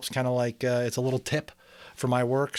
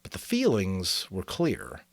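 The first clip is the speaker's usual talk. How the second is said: steady read-aloud storytelling voice; story narration; 3 semitones lower than usual. A narrator's reading. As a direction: read the chapter like a bedtime novel. Reads novel chapter aloud.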